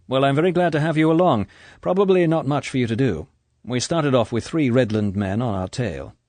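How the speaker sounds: a confident agent laying out the plan; Bond's voice. Acted. Bond briefs Nash.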